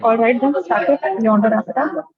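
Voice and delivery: muffled voice, as if through a hand. Real, not acted. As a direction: speak muffled, mouth partly covered. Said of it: "Sorry, your voice is so muffled".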